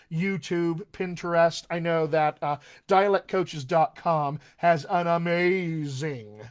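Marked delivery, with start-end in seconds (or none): 5.1-6.4 "amazing" with a long drawn-out MAY; emphatic amazing. Real, not acted. Coach praising a Pinterest page, stretched stress on amazing. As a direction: stretch the middle of "amazing" slowly. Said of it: "and I mean amazing".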